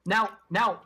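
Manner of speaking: lightly voiced fussy crow, polite and prim; a hint of a prim, pompous bird; talking crow. Crow interrupting the party, lightly voiced prim bird.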